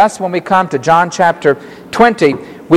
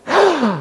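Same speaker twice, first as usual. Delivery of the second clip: mock gasp; 11 semitones higher, 4 dB quieter than usual. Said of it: "giving an exclamation".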